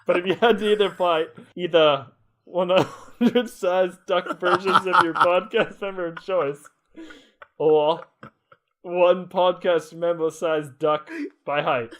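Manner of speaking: put-on slow, deliberate Australian accent. Co-host reading the listener's question, slow Australian accent. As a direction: read it out slowly in your best Aussie. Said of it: "my best attempt at that Australian accent".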